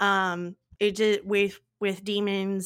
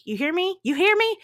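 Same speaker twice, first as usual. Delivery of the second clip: mock scolding squeal; 9 semitones higher, 6 dB louder, faster than usual. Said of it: "Look what you did to me".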